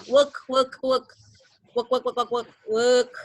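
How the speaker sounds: "work" repeated with no R sound; British WORK without R. Shown as a demonstration. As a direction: drop the R in each "work". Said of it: "nggak ada R-nya". ("work" berulang tanpa bunyi R)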